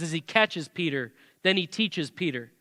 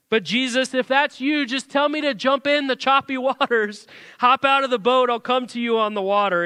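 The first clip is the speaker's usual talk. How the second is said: excited Peter calling; 5 semitones higher than usual. Retold or imitated. Pastor voices Peter calling out.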